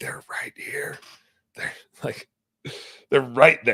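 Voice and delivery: hushed, urgent whispered yell. Retelling telling Danny to freeze near deer: imitating own whisper yelling. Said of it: "whisper yelling".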